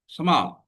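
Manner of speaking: स्मॉल as a single beat; one syllable, unbroken. Shown as a demonstration. Teacher showing students one syllable, स्मॉल without a break. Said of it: "हम रुके नहीं हैं".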